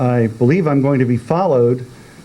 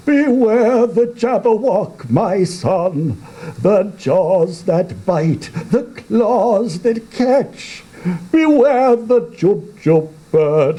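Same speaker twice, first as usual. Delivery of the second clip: much higher, urgent warning voice; old father's warning; 8 semitones higher than usual. Acted. Father warning his son about the Jabberwock, high and urgent. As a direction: warn the boy of the monster.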